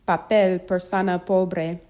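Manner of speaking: P in Papel, persona pobre without a puff of air; unaspirated P. Shown as a demonstration. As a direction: keep the P of Papel, persona pobre non-explosive. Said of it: "without the puff of air".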